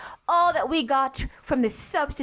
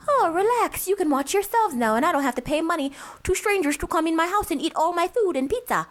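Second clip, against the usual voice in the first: higher-pitched mock parent voice; relieved parent; 6 semitones higher than usual. Co-host voices the parent of older kids, mock relief. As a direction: play it airy and high, finally off duty. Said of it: "And then we got to the".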